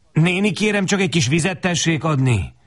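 high-pitched, pleading request; humble plea. A narrator's reading. Thirsty boy asking the woman for water, humble plea. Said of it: "szólok be alázatosan".

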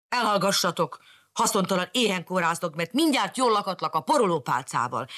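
put-on mild flushed girl scolding; angry shout. Mariska scolding the pets, mildly angry. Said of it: "kiáltotta nekipirulva".

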